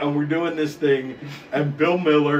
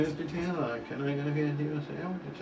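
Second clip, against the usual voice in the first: hushed handler; 12 dB quieter than usual. Retold or imitated. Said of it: "So I was like".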